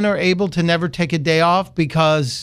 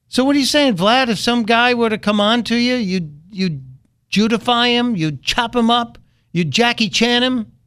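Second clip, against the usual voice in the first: high, incredulous mock questions to Vlad; mocking disbelief; 7 semitones higher than usual. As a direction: ridicule him with high teasing disbelief.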